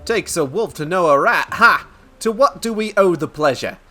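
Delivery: high, loud rat-crook voice; wary rat crook. Acted. Rat crook greets the wolf, high taunting voice. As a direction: pitch it up into a cocky, taunting character.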